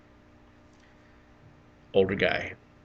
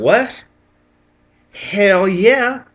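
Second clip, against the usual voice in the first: high, loud, eager outburst; excited; 12 semitones higher, 11 dB louder, much slower than usual. Retold or imitated. Eager airman answering the captain's offer to show a UFO, excited. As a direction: blurt it out, high and thrilled. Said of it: "excited to see something in my life".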